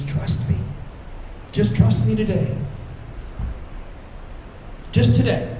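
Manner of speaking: hushed, gentle voice of God, half whispered; soft and close, like God answering. Acted. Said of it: "And he says".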